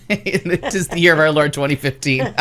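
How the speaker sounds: laughing through the catchphrase; catchphrase said while laughing. Shown as a demonstration. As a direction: giggle out the pet phrase. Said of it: "that is word for word how I like to say things".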